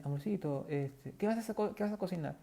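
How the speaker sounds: high, softened sweet talk; sweet wife. Retold or imitated. Wife sweetly asking her husband what he'll cook. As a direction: coo it affectionately. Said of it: "Y luego, este".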